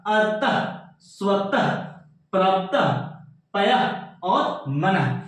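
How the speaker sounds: अतः, स्वतः, पयः, मनः each ending in a "ha" breath; visarga as h. Shown as a demonstration. Teacher reads visarga examples to students, endings sounded as ha. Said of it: "हा से कराता है बच्चों".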